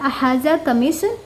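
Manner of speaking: slow Arabic question with rising end; slow teacher reading; slow model question. Shown as a demonstration. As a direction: model the question form slowly. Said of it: "ആ എന്നുള്ളൊരു അക്ഷരം ഇവിടെ ചേർത്ത് കഴിഞ്ഞാൽ".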